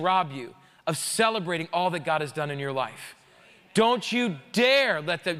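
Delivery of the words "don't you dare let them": slow preacher's shout; forceful warning. Real, not acted.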